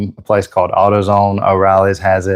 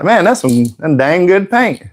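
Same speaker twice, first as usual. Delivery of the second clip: mock enthusiasm; 7 semitones higher than usual. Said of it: "I was like".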